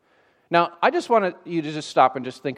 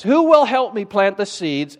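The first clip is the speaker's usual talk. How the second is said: lightly voiced storybook hen asking; a touch higher, hint of a hen character; hen's question; 4 semitones higher than usual. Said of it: "she asks questions like this".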